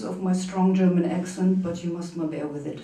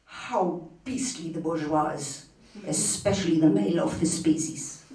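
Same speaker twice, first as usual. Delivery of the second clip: poem recitation. Acted. Poem refrain returns.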